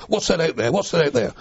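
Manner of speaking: high mock sailors bellowing across the water. Sailors teasing young recruits with a mock shout. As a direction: call out teasingly, pitched high. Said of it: "thought they'd bellow out to us".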